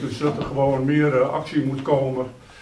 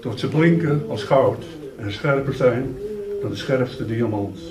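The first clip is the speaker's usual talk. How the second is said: measured poetry reading with long pauses after lines; poem recitation; 3 dB louder than usual. Acted. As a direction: recite it line by line, louder than chatting.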